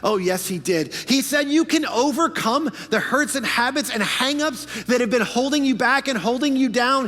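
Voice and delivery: high, loud, sing-song preaching; preaching at full force. Acted. Preacher to congregation, high loud sing-song preaching. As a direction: build the praise like a revival.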